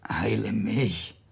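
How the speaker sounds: slow whispered heile mich; a slow desperate whisper; whispered plea. Acted. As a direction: breathe the words out slowly, no voice. Hiob begs even if it's Satan.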